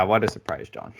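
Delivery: dry sarcasm, at an ordinary pitch; deadpan mock surprise, falling at the end; sarcastic. Real, not acted. Teasing John about the obvious, sarcastic. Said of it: "Like I said sarcastically".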